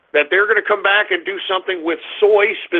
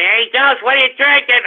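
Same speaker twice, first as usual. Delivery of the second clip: mocked listeners; 4 semitones higher than usual. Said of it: "all you idiots that are gonna, you know, say".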